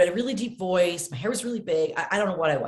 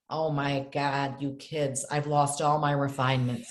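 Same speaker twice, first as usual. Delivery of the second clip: mock mother lament; 5 semitones lower, slower than usual. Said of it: "she'd say to us".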